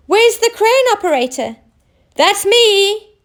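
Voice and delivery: high eager reply; excited. Acted. Oscar answering the captain, high and eager. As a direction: jump in eagerly. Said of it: "replied Oscar excitedly".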